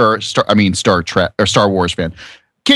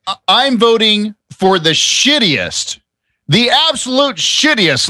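mock grandstanding; 7 semitones higher, slower than usual. Mock-grand declaration of vote.

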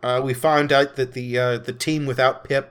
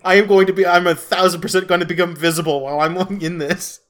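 panicked; 7 semitones higher, 5 dB louder, faster than usual. Retold or imitated. Character's panicked realization.

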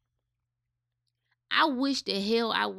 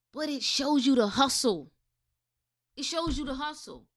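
whisper; 4 semitones higher than usual. Real, not acted. Stressing the hustle.

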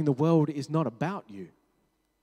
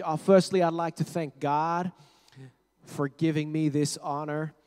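put-on terrible American accent; 3 dB louder than usual. Award winner thanking God on stage, bad American accent. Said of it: "that's a terrible American accent".

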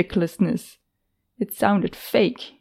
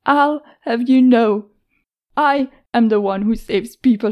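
raised, heated, indignant; indignant outburst; 2 semitones higher, 3 dB louder than usual. Acted. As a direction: defend your pride angrily. Heroine angrily asserts herself.

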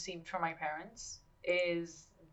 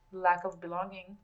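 with heartburn. Real, not acted. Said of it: "this heartburn is trying to kill me".

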